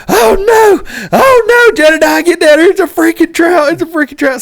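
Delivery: high-pitched panicked holler to a buddy; yelling. Retold or imitated. Angler yelling at Jedediah about a monster trout, frantic high yell. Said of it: "And I'm yelling at Jedediah".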